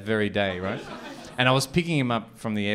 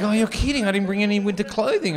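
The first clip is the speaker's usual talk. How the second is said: imitating the mate; 10 semitones higher, faster than usual. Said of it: "He's like".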